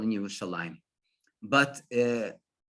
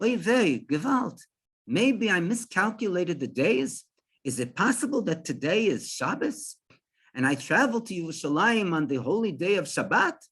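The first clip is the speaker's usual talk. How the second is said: mildly alarmed, slightly raised pitch; startled; 3 semitones higher than usual. Retold or imitated. Startled traveler fretting to himself about Shabbos, mildly alarmed. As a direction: puzzle it out with a touch of dismay. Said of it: "like, really startled".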